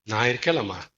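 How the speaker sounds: understated soothing, as an acted husband; consoling husband. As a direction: gently comfort your wife, a little subdued. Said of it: "அண்ணாள்கிட்ட ஆறுதல் சொல்ல வரான்".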